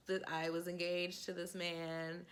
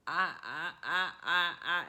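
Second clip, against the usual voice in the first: stammering; 4 semitones lower, 4 dB louder than usual. Retold or imitated. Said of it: "his response was just like".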